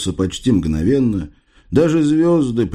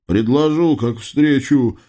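words through a yawn; sleepy yawning reply; 2 semitones higher, slower than usual. Acted. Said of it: "зевнув".

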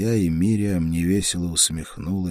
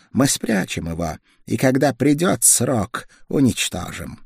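higher, firm voice of a sick woman; insistent feverish woman; 6 semitones higher, 5 dB louder than usual. A narrator's reading. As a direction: press the point, firm despite fever. She insists on keeping blade.

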